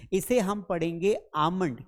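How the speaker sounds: आमंड said as "aamand", no L sounded; slow, careful आमंड without the L; almond said the teacher's way. Shown as a demonstration. Teacher giving the class the right way to say a word: आमंड with a silent L. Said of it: "क्या पढ़ेंगे?".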